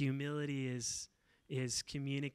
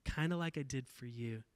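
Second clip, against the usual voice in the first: gentle reply. Retold or imitated.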